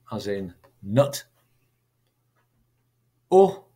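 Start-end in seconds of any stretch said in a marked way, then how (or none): 3.3-3.6 "U," said as the short oo of soot; vowel as in soot. Shown as a demonstration. Teacher models the vowel of soot, sounding it out. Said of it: "as in soot".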